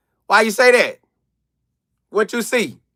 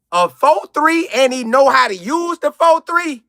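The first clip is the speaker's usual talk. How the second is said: ordinary talk, nothing marked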